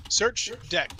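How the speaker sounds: talking with food in mouth; words round a mouthful of food; mouth full. Real, not acted. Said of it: "Sorry, I have food in my mouth".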